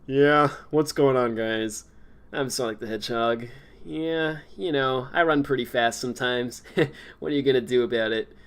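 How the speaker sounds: a hint of a too-mature, laid-back hedgehog; grown-up Sonic. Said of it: "it also shouldn't sound like".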